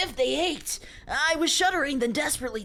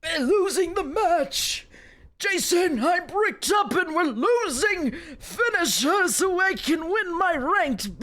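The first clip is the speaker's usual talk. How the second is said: louder, slower panicked gamer yell; mock shouting gamer; 4 semitones higher, 4 dB louder, slower than usual. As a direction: yell it at a teammate mid-match. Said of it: "in the mic you hear".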